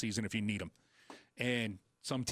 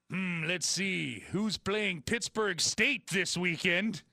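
thinking hmm; 5 semitones higher, much slower than usual. Real, not acted. Host musing over opponents.

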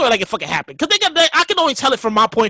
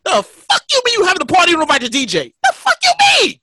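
loud Brooklyn outrage, rising to a high shout; hammed-up Brooklyn DJ yelling, pitch way up; 7 semitones higher, 4 dB louder than usual. DJ retells his angry DM in a Brooklyn voice. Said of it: "This is his Brooklyn voice".

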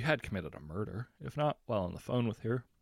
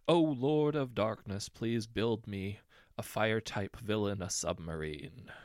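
slow, louder hammed-up supplication; mock prayer; 4 dB louder than usual. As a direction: grovel to the dark lord, slowly and grandly.

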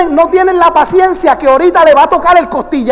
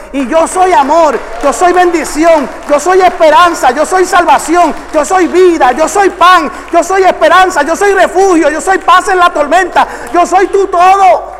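building preaching; 3 semitones higher than usual. Acted. Preacher voicing Jesus to the congregation, building fervor. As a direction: preach each I am harder and harder.

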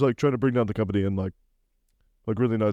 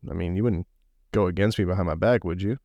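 his way of talking; 5 semitones lower than usual. Retold or imitated. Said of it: "That's how he talks".

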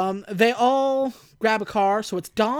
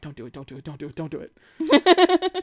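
laughing mock dread; 4 semitones lower, 4 dB louder than usual. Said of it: "my heart stopped".

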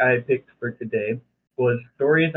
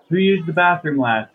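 mock stern teacher; 5 semitones higher, 4 dB louder than usual. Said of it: "marched in the room and was like".

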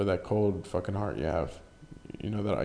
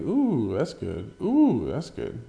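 impressed ooh; 2 semitones higher, 3 dB louder, slower than usual. Retold or imitated. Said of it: "I was like".

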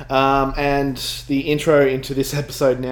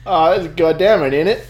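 put-on British accent; 5 semitones higher, 4 dB louder than usual. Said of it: "old-timey British accent".

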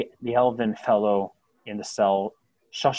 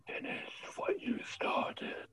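unvoiced, slow breathy whisper in the ear; 10 dB quieter, slower than usual. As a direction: breathe it right into their ear. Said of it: "barely a whisper".

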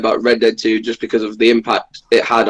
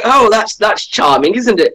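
high, laughing posh English accent, imitating the actors; gushing in a mock posh English accent; 8 semitones higher than usual. Cast praising his accent, in a mock posh English accent. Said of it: "they were all so posh".

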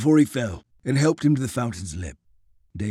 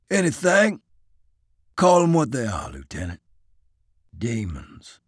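scornful Southern soldier. Acted. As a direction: scoff at the plan, bitter. Isaiah voiced, scornful.

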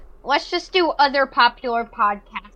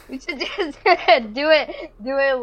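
laughing; 3 semitones higher, 3 dB louder, slower than usual. Real, not acted. Laughing through a suggestion.

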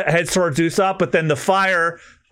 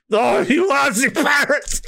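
slow mock curse; 8 semitones higher than usual. Villain cursing slowly.

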